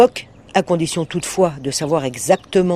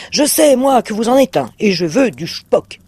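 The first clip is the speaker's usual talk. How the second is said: monstre furieux; 6 semitones higher, 4 dB louder than usual. Acted.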